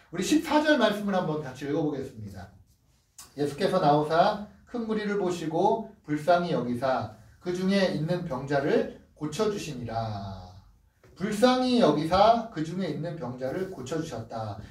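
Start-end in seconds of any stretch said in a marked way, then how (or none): 3.4-10.4 slow scripture reading. Acted.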